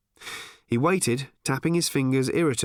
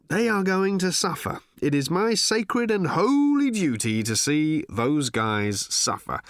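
Ford's voice; 7 semitones higher than usual. Acted. Ford telling the barman of his sacred revenge, a lightly voiced mock vow. Ford's musing speech in the bar.

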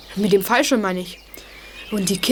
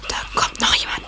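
whisper. Acted. Boy hiding in the moor whispers to friends. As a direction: keep it to a breath.

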